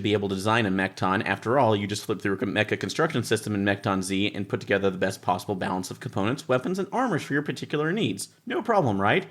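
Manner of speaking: lightly performed reading of rulebook prose; rulebook read aloud. Acted. Reading the rulebook's wry passage aloud to the group. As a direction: read the book's wry text out to the table.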